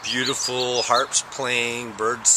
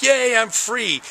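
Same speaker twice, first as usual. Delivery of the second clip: higher, louder, slow triumphant yay; hammed-up relieved cheer; mock cheer; 9 semitones higher, 4 dB louder, slower than usual. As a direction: celebrate escaping like a kid. Cord finally pops out.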